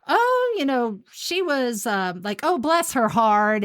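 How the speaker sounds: Southern mom phrase. Retold or imitated. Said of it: "she does these Southern mom phrases".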